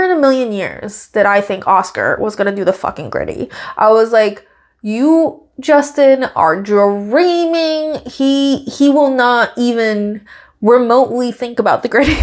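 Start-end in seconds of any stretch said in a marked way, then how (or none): 4.8-12.2 emphatic, exaggerated dismissal; mock disbelief. Acted disbelief at a bold bet.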